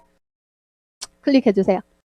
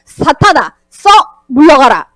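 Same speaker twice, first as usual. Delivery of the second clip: scolding rebuke; 2 semitones lower than usual. Acted. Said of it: "호통치셨어요".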